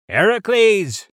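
high, loud, slow cry of the name; shouted name. Acted. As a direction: call out in alarm as he is snatched. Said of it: "shouted Zeus".

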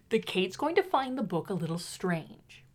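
hushed aside; whispering. Real, not acted. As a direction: whisper it so she can't hear. Aside while Kate reads.

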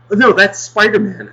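high, breezy mock-mother correction. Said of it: "the mother's like".

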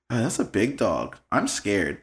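put-on soft, low, unbothered little-kid quote; very calm. Nephew seeing a big pit bull, very calm. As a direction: say it with total calm, quietly. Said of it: "but in a very, really calm voice".

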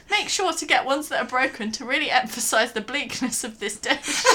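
reads the recipe aloud, breaking into giggles; can barely get through the bleak recipe for laughing; laughing while reading. Real, not acted.

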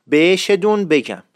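careful dialect بهشتون, drawn "bey"; Isfahani dialect form. Shown as a demonstration. Teacher repeats the phrase for students, Isfahani pronunciation. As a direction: repeat بهشتون clearly as "beyshedun".

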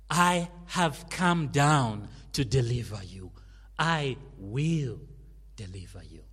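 proclaimed. Acted. Quoting God, proclaimed.

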